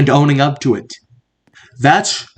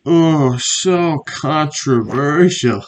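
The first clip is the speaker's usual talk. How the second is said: drawn-out dramatic; much slower than usual. Acted. Mock-dramatic commentary on controversy.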